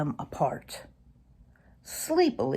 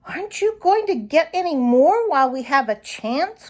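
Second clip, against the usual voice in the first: put-on higher, whiny young fox; young fox grumbling, pitched higher; grumbled; 8 semitones higher, 3 dB louder than usual. A narrator's reading. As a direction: complain like a greedy pup. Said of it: "grumbled Reddy".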